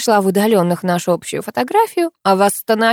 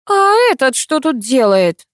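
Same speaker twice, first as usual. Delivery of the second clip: slow, higher, frowning question; 7 semitones higher, 5 dB louder than usual. Acted. Katya frowns at Sapozhnikov, suspicious and slow. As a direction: Katya eyes the intruder with a frown. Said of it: "нахмурилась Катя".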